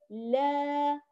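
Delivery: لا with an open, straight long aa; upright alif. Shown as a demonstration. Teacher contrasts two sounds, this one open and upright. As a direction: hold لا as a pure open "laa". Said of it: "لاحظ الفرق بين الصوتان".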